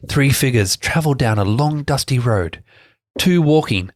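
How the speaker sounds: reading her own adventure story aloud; story narration. Acted. Reading her tale to the party, storybook narration. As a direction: narrate it like a storybook, steady and measured.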